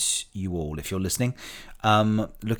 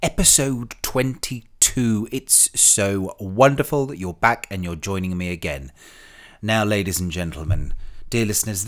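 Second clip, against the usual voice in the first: campy drag queen; 3 semitones higher, 6 dB louder than usual. Acted. Podcast host camp welcome.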